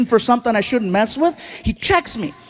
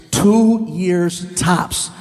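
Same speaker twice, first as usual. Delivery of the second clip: doctor's blunt verdict; 5 semitones lower, much slower than usual. Retold or imitated. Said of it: "He goes".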